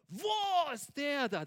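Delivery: hammed-up flash of temper; mock flaring temper. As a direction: blow up in pretend indignation. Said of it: "Wenn du aufbraust so".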